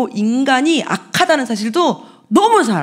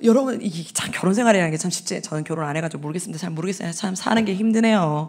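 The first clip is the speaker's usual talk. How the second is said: much softer, fast, self-deprecating aside; muttered aside; 6 semitones lower, 6 dB quieter, faster than usual. Real, not acted. Preacher aside to the congregation about being single, muttered softly. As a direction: drop the voice to confide a joke.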